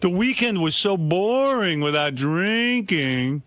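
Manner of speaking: whiny Richard. Retold or imitated. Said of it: "He goes".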